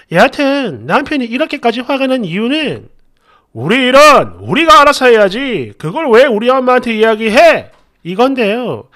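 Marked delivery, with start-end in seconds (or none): 3.5-7.7 louder scolding complaint; mock husband snapping; imitating angry husband.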